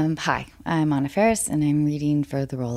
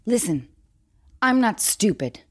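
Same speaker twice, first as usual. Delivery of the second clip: eager audition; 3 semitones higher than usual. Acted. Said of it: "You're acting".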